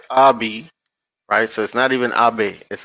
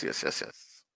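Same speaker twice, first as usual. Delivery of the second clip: breathy unvoiced whisper of yes; 17 dB quieter than usual. Real, not acted. Whispering yes to himself while screen sharing. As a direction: murmur the yeses under the breath.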